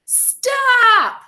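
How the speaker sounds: put-on high, long child's shout; yell as loud as possible. A narrator's reading. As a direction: let it rip at the top of the lungs. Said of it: "yelled as loud as she could".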